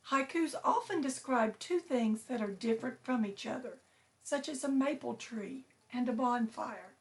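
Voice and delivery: put-on clear, gentle storybook reading for kids; reading to children. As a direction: read it like a teacher to her class. Teacher reads book to class.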